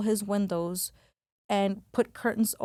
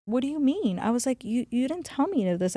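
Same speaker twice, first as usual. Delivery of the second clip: higher-pitched, incredulous question; retold indignant protest; 4 semitones higher, faster than usual. She challenges her friend after the visit, indignant protest.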